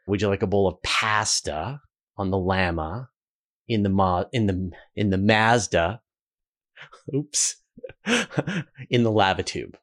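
Canadian, pasta with the flat a of cat; "pasta" and "llama" with the a of cat, Canadian way; Canadian pronunciation. Shown as a demonstration. Host shows his own Canadian way, flat a. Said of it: "I would say".

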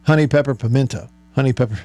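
quick run at a tongue twister; tongue twister attempt. Shown as a demonstration. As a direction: try rattling it off, then break off. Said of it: "Say that five times fast".

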